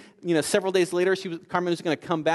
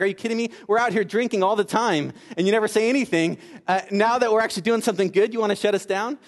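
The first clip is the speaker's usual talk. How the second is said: mildly indignant, pitched-up protest; upset; 4 semitones higher, 3 dB louder than usual. Retold or imitated. Upset parent protests to police shutting down the meeting, indignant. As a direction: retell an exasperated complaint, building in disbelief. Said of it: "actually got upset".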